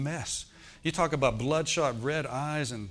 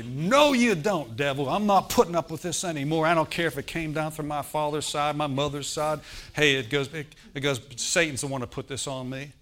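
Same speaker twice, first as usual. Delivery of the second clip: commanding rebuke; 4 dB louder than usual. Acted. Preacher acting out rebuking the devil.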